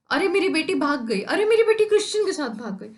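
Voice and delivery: fast, rising wail; hurried cry of loss; mock lament. Teacher voices Shylock shouting his daughter fled, mock lament. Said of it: "चिल्ला रहा है".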